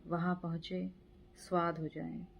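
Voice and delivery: measured poetry reading with pauses after each line; poem recitation. Acted. Reciting a friend's poem for his birthday, measured poetry recitation. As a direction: recite it line by line, letting images land.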